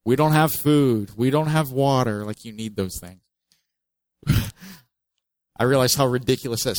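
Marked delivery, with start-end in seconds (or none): 0.0-2.2 moaning complaint.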